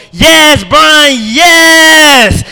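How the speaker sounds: high, loud squealing cheer; flamboyant cheer. Retold or imitated. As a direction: squeal it out camp and excited. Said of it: "stand up and go".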